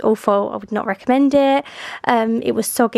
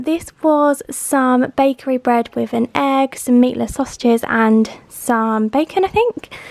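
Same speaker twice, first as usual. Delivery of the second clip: breathless after running upstairs; puffing between words; out of breath; slower than usual. Real, not acted. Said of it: "I'm out of breath, I've run up the stairs".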